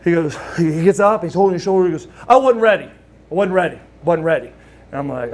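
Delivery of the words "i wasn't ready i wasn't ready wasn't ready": insist, then lose steam; protesting. Retold or imitated. Rude protesting after slam, retold.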